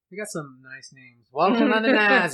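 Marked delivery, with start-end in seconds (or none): 1.3-2.3 high, loud plummy English; posh English accent. Pretend. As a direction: relish the silly place name. Savouring a funny place name.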